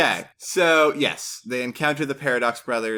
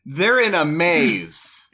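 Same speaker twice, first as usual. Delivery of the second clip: slow deadpan; 4 semitones higher, 4 dB louder, much slower than usual. Pretend. Deadpan dramatic summary.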